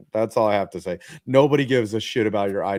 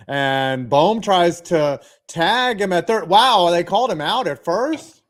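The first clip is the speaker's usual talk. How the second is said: much higher, louder, incredulous call; can't believe the umpire's call; stunned disbelief; 8 semitones higher, 6 dB louder, slower than usual. Real, not acted.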